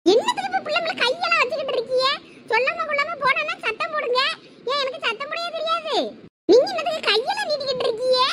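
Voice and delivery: high, indignant scolding; angry protest. Acted. Wife protests husband hitting the child. (கோபமாக உயர்ந்த குரலில் கண்டிப்பது)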